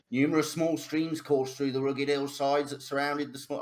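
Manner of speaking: put-on lightly Cockney old storyteller; a bit cockney. Old man reading lore to the party, faintly Cockney. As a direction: read the lore with a slight Cockney lilt. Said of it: "he's turned a bit cockney".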